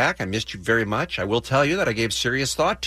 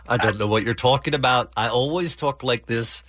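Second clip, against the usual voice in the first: bad Liverpool accent. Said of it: "the worst Beatle ever".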